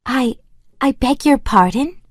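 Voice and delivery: high, halting princess, stumbling on the first word; a flustered girl caught off guard; nervous. Acted. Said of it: "Valeria said nervously".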